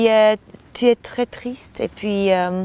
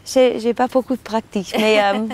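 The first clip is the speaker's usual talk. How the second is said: foreign accent in French; faster than usual. Real, not acted. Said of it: "pardon, mon français".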